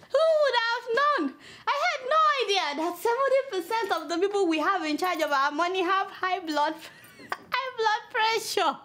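barely holding the laughter in; laughing. Real, not acted. Host laughing at the high blood pressure news.

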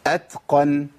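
أتقن with a puff of breath after the ت; ta with hams. Shown as a demonstration. Teacher showing the ta's breath to students, ت released with hams. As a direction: let the breath run on the ت of أتقن. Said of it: "اسمعوا الهمس".

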